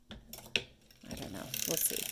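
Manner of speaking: low, slow, unvoiced; muttered doubt. Real, not acted. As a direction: trail off to yourself. Musing quietly.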